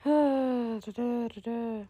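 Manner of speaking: long audible sigh. Real, not acted. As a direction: let out a drawn-out breath. Sighing between lines.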